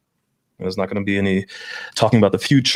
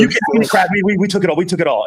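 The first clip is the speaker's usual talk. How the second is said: higher, hammed-up stoned taunt; mock crackhead; 8 semitones higher, faster than usual. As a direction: imitate the crackhead couple gloating, a bit higher. Crackheads voiced in story.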